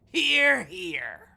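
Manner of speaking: loud hear hear; loud toast cheer. Acted. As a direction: bellow the toast. Toasting with crew.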